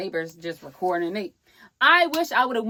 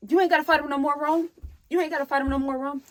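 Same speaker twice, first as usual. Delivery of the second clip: imitated pleading aunt; 6 semitones higher, 3 dB louder, faster than usual. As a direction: mimic an aunt calling him off. Voices aunt calling out to Rome.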